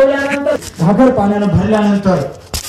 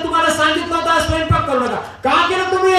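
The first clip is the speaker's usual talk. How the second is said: higher-pitched, mock-cross rebuke; mildly angry scolding; 7 semitones higher than usual. The Lord scolding over sweet puris cooked against his word, mildly angry. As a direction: chide with raised pitch, not raised volume. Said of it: "तसे रागवले".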